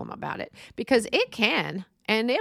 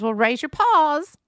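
higher, louder, slow and sing-song; mock club president; 6 semitones higher, 6 dB louder, slower than usual. Teen club president asking classmates to raise hands, hammed-up cutesy voice. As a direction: ham up the cutesy girl's catchphrase. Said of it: "She goes".

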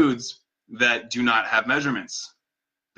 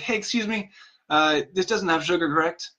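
friendly light ask, higher on hey; kind, friendly; 4 semitones higher than usual. Retold or imitated. Customer politely checking drink with barista, kind and friendly. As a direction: ask nicely, one human to another. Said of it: "a kind, human-to-human conversational piece".

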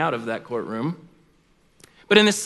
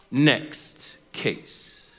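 low, very soft dismissal with a pause between words; dismissive judge; 4 semitones lower, 5 dB quieter than usual. Acted. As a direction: wave her away quietly, as the judge. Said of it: "that judge would look right past her".

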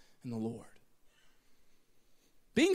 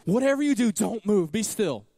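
louder, firm mock warning; emphatic warning; 6 dB louder than usual. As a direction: hammer the warning home. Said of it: "the worst thing to say".

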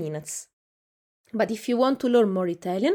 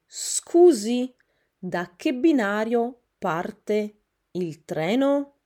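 raised, polite "Scusi" to a stranger; polite traveller question; 3 semitones higher, 5 dB louder, slower than usual. Shown as a demonstration. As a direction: ask a stranger politely on the platform. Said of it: "you can say". (to a stranger on the platform, polite)

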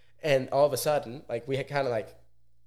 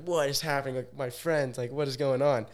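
freaking out; 3 semitones higher than usual. Retold or imitated. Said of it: "He's freaking out".

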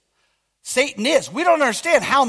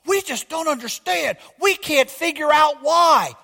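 mock newscasters. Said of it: "they're all out there".

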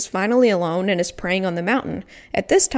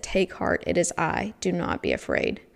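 softer, hushed voice of a calm Jesus; gentle reassurance; 5 dB quieter than usual. Acted. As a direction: soothe frightened friends quietly. Jesus calming frightened disciples.

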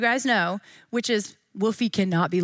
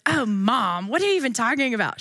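lightly put-on teen daughter, a bit quicker; hint of an exasperated teen; mock daughter voice. Mom imitating her daughter's reply, mildly put-on. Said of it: "She does not talk like that".

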